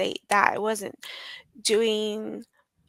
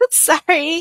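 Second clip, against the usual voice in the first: embarrassed laugh into sorry; laughing apology; 7 semitones higher, 9 dB louder than usual. Real, not acted. Guest apologizing to host through a real laugh.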